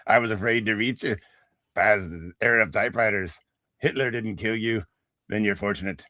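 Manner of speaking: put-on Irish accent read like a robot machine; a talking typewriter with an Irish lilt; robotic Irish accent. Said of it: "It's robotic and Irish".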